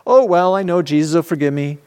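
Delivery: airy, carefree brush-off; flippant. Retold or imitated. Mocking a careless believer, flippant and airy. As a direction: say it like forgiveness is automatic. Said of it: "Kind of too flippant".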